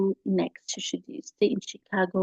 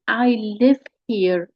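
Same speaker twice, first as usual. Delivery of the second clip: I LIVE HERE slightly louder and emphatic; stress on I LIVE HERE; 4 dB louder than usual. Acted. Catherine insists to Claire, emphatic I LIVE HERE. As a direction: push I LIVE HERE as if in capitals. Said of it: "it's all in capital letters".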